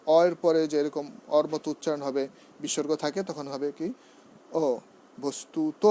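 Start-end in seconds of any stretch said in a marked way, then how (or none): 5.2-5.8 "বস্তুত" as bostuto, ending on a rounded o; rounded final o. Shown as a demonstration. Teacher demonstrating the ending, "বস্তুত" with rounded final o. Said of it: "ঔকারান্ত".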